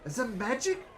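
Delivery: booming high showman's welcome, then slowing down; grand ringmaster. Acted. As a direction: announce it like a circus ringmaster to the crowd. Ringmaster introduces first act.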